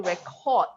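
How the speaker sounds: "record" as a verb, stress on the last syllable; second-syllable stress. Shown as a demonstration. Teacher showing a verb, "record" stressed at the end. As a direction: lean on the second half of "record". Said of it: "you stress on cord".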